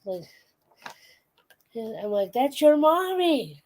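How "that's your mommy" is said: high, slow sing-song pet talk; retold baby-talk, pitched up; teasing introduction. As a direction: coo it to a cat, drawn out. Retells introducing cat to its mother.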